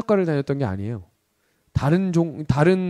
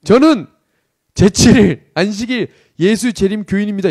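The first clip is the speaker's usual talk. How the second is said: loud, raised-pitch military announcement; recruit's loud declaration; 3 semitones higher, 6 dB louder than usual. Retold or imitated. Recruit to angry commander, sudden loud declaration. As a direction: blurt it out like a recruit reporting.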